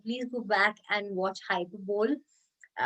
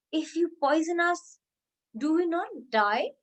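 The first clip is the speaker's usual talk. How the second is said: rhetorical challenge; 6 semitones higher than usual. Shown as a demonstration. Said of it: "To bring more emphasis".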